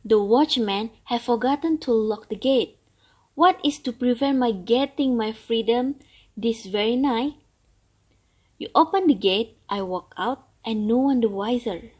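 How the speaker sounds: put-on an old turtle longing for freedom; grumbling old turtle. Turtle voiced in story.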